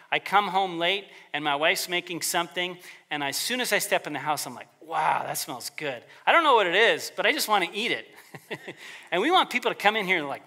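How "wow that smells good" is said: savoring delight. Retold or imitated. Smelling wife's cooking at home.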